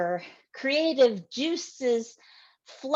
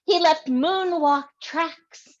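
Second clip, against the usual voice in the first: building excitement; 6 semitones higher, 7 dB louder than usual. Acted. Poem climax read aloud.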